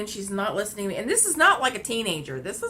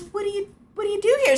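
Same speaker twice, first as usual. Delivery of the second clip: high, fast mock voice of the woman; high quick put-on voice of the woman; 12 semitones higher, 4 dB louder, faster than usual. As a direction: rattle off her question in parody. Mimicking the woman's question.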